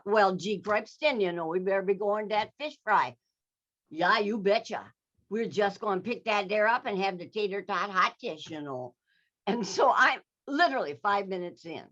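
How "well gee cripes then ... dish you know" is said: a light, homey Upper Midwest Wisconsin accent. Shown as a demonstration. Wisconsin girl home for five minutes, light Wisconsin accent. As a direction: lean gently into small-town Wisconsin talk. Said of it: "this is how I begin to talk".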